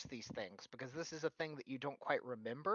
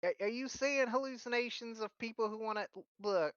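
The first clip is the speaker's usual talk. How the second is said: light granny voice; 8 semitones higher than usual. Acted. GM voicing Philia.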